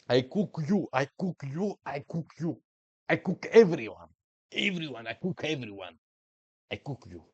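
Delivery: high, loud taunting voice; hammed-up bragging taunt at the opponent; mock trash talk. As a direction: gloat like a cocky boss.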